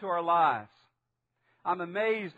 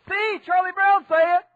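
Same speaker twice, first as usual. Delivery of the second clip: put-on loud, high, triumphant toddler shout; imitated two-year-old; 11 semitones higher, 11 dB louder than usual. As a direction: shout it like a vindicated little kid. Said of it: "he hopped up and he said".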